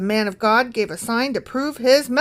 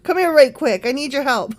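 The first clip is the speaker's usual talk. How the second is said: lightly hammed-up urgent request; a touch of playful pleading; mock urgent king; 3 semitones higher, 4 dB louder than usual. Still mimicking the pleading king.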